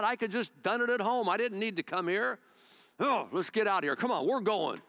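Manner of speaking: hammed-up indignant general storming off; furious Naaman. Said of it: "he was furious".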